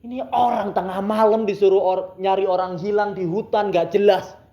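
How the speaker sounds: loud re-enacted grumble; grumbling. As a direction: imitate griping along the road at night. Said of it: "sambil ngomel di jalan". (mengomel kesal di jalan)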